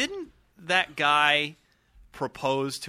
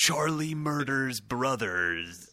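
movie trailer voice; 4 semitones lower, much slower than usual. Acted. Mock movie trailer title.

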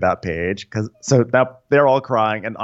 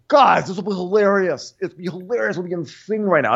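mock party girl; 8 semitones higher than usual.

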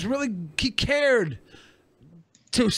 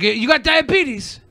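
higher, slow mock question; imitated prying stranger; 6 semitones higher, 3 dB louder, slower than usual. Stranger quizzing a customer about health, imitated prying. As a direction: ask slowly as the nosy stranger. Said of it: "he was like".

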